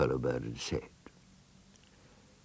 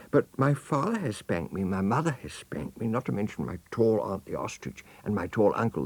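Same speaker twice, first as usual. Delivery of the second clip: put-on lightly raised, childlike voice; elephant's child; 4 semitones higher than usual. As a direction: list the spankings like an innocent child. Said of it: "said the elephant's child most politely".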